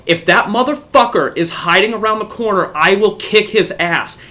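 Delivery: half-yelled warning, short of a scream; retold angry threat. Organizer threatening a kid hiding round the corner, retold angry threat. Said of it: "I'm screaming now".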